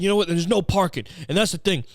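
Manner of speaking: exasperated imitation of a complainer; imitated tirade. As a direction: imitate a fed-up ranter making his point. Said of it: "a tirade about".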